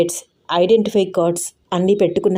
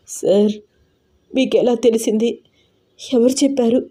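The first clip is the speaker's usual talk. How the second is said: hopeful; 4 semitones higher than usual. Acted. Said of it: "కళ్ళల్లో మెరుపుతో అడిగింది దీప".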